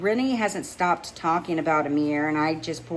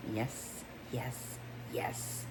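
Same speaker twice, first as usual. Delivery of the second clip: breathy, near-whispered, much softer; a private, dazed thrill; dreamy inner yes; 4 semitones lower, 14 dB quieter, much slower than usual. Acted. Dreamy inner thought about Nico.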